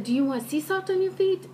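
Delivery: high mock Asian accent for the nail lady; imitated Asian accent. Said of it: "am using the accent because".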